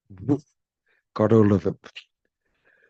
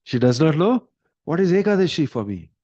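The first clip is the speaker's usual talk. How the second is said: upset pleading; 8 semitones higher than usual. Retold or imitated. King urges his wife.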